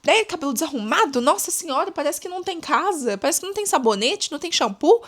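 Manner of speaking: snide gossip hinting at someone's messy hair; snide indirect jab. Retold or imitated. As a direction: toss out a catty hint to nobody in particular. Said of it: "fica falando assim".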